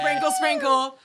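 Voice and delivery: high sing-song sprinkle sprinkle; TikTok lady impression. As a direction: chirp it way up high like her. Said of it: "The fucking lady on TikTok".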